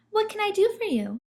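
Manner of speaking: high, polite giraffe; puzzled hostess. A narrator's reading. Giraffe speaks.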